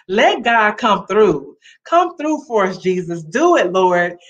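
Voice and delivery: fervent prayer plea. Real, not acted. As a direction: call out to God earnestly. Prayerful call to God.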